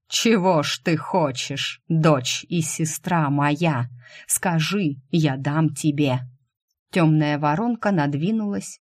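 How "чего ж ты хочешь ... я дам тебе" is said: very slow, alien voice with a mocking edge; a sly tempter savouring every word; dark spirit's offer. Dark spirit offers Shu anything, slow alien mocking voice. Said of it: "Тёмный хис рассмеялся".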